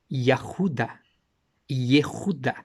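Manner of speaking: Yahuda and Yehuda each said clearly with falling ends; careful Hebrew pronunciation. Shown as a demonstration. Teaching the congregation the Hebrew form of Judah, carefully. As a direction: lay out Yahuda and Yehuda side by side. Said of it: "Olha só, ou Yahuda ou Yehuda".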